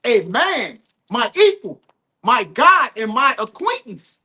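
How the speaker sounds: measured, emphatic verse reading; scripture reading. Real, not acted. Reading the psalm about a friend's betrayal, emphatic scripture reading. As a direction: set out each phrase of the verse deliberately.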